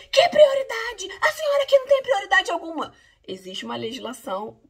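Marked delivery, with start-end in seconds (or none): 0.1-2.9 higher and louder, scoffing man's outburst; mock indignant shout. Man sneering at her right to priority, loud mocking shout. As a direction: blast it like a scornful bully.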